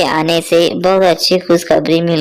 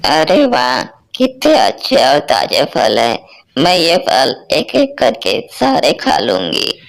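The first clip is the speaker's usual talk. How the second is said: put-on hungry old mother-in-law. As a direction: moan like a starving mother-in-law. Mother-in-law finds the fruit.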